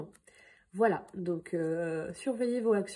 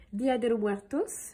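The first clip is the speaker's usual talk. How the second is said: Spanish pronounced with a French accent; amateur Spanish accent; slower than usual. Real, not acted. Vlogger unsure of a Spanish holiday's name, amateur Spanish accent. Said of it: "excusez mon accent".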